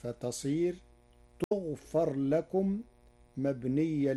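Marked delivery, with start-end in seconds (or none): 1.5-2.8 "تغفر" said tughfar, slow and measured; initial tu, fatha on fa. Shown as a demonstration. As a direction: start "تغفر" with tu and open the fa to far. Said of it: "بالتاء الفوقية المضمومة". (نطق "تغفر" بتاء مضمومة وفاء مفتوحة)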